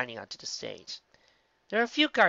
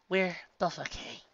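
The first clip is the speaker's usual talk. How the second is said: higher, slow acted reply; suppressed tremor; 6 semitones higher than usual. A narrator's reading. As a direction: hold back a tremor while reassuring. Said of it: "trying to quiet the tremor in her voice".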